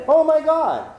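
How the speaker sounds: high, loud horrified exclamation; hammed-up gasp of disbelief in words; acted shock. Students watching their master kill a cat, acted shock.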